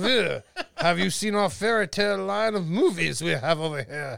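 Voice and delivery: put-on low French-accented sales pitch; mock French accent. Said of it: "What about my French accent".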